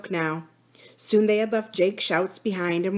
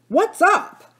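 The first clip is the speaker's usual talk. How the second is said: high, loud startled call; alarmed question; 11 semitones higher, 7 dB louder than usual. A narrator's reading. Jake to the gasping children, alarmed question. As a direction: call out sharply in surprise.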